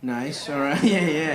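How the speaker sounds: ordinary talk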